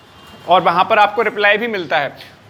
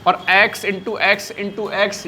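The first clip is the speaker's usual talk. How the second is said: slow teacher spelling-out; much slower than usual. Shown as a demonstration. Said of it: "देखो".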